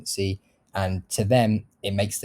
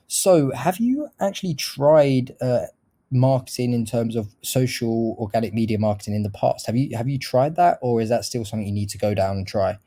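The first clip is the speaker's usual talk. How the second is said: open, inquisitive question that goes up at the end; curious rising question. Shown as a demonstration. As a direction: question ending on a rise at "try". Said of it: "I sound very curious. I raise the tone at the end".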